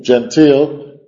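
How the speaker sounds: slow "gentil" with a long EE; "gentil" said slowly, like English genteel; pronounced with I. Shown as a demonstration. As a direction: stretch "gentil" out as gen-TEEL. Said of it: "con una I en medio".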